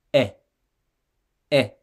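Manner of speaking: "Est" said as "é" with no t; silent t demo. Shown as a demonstration. Teacher to learner, showing the silent final consonant. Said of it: "on n'entend pas la consonne finale".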